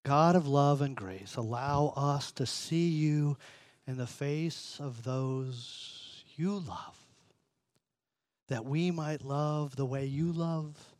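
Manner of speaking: slow, hushed, earnest prayer to God; a pastor's closing prayer; spoken prayer. Real, not acted. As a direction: pray it gently and unhurried. Leads the congregation in prayer.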